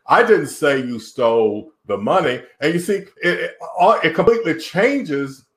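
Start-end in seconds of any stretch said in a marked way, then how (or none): 0.0-2.4 "stole" lifted and lengthened; stress on STOLE. Shown as a demonstration. Coach showing how emphasis changes meaning, stress on "stole". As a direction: lean on the word "stole" in the sentence. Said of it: "put the emphasis on any of those words".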